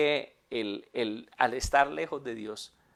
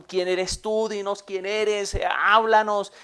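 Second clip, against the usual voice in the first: loud, higher-pitched acted demand; demanding interrogation; 7 semitones higher, 8 dB louder, slower than usual. Priests demanding Jesus say who he is, loud and insistent. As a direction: press for an answer, building in volume.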